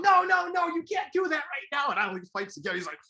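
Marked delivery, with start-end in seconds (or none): 0.0-1.9 higher, louder playful mock protest, imitating the host; hammed-up host telling a guest to stop, teasing; playful Arsenio. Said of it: "Arsenio starts playing around".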